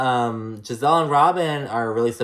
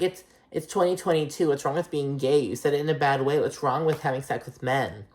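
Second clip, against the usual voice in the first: airy, much higher mocking voice for Mia's fake ally act; 4 semitones higher than usual. Recapper mocks Mia trying to play the ally, high and airy. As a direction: ham up a phony ally, voice pitched way up.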